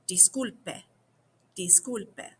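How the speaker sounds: Disculpe said clearly, stress on cul; clear, careful Disculpe; careful teaching demo. Shown as a demonstration. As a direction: model Disculpe for learners. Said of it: "that's kinda hard to say too".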